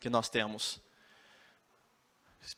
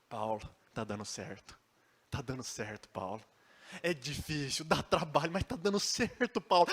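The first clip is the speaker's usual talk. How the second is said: gentle reassurance. Acted. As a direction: soothe a broken friend. Tito gently reassures Paulo.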